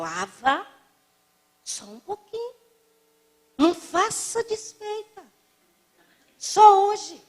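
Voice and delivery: put-on high, coaxing little old lady voice; the old woman urging the speaker to take another cake, high and coaxing; insistent old lady. Pushy old lady offering food.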